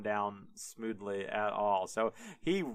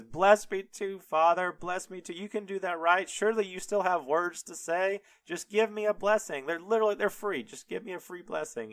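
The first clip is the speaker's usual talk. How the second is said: high-pitched mock-desperate begging; wailing Esau; 7 semitones higher, faster than usual. Crying son begs father for a blessing, mock wailing. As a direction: plead in a high, hammed-up wail, without really screaming. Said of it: "and he screams".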